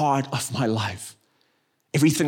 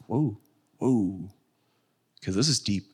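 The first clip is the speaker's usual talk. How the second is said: hushed awe; 7 semitones lower, 5 dB quieter than usual. Retold or imitated. Awed at deep ravine.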